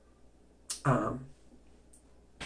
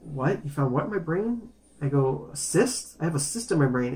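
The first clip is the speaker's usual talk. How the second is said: retold freaking out; 3 semitones higher than usual. Patient hears of a cyst from doctor, retold freaking out. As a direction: react with alarmed disbelief, mildly re-enacted. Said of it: "I'm freaking out".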